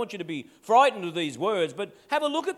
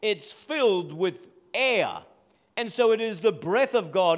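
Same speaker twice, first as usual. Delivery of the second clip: ordinary talk, nothing marked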